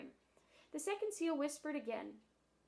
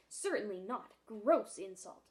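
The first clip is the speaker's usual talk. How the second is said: louder, huffy indignation; offended old gentleman; 6 dB louder, slower than usual. Acted. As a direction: splutter at the insult. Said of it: "he snorted".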